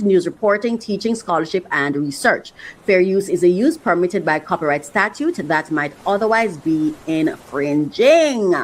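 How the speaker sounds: brisk legal read, drawing out the last word; lively copyright notice reading; disclaimer read-out. Acted. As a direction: rattle off the fine print, stretch the ending.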